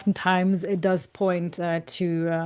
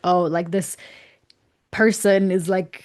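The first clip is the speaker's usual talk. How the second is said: theatrical voice. Retold or imitated. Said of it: "in a theatrical voice".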